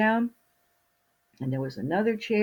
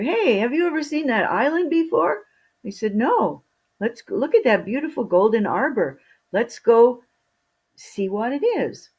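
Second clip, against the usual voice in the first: higher, louder hail across the water; merchants calling; 6 semitones higher, 6 dB louder than usual. Acted. Merchants call to each other from their ships, loud and high. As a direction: shout across to the other ship.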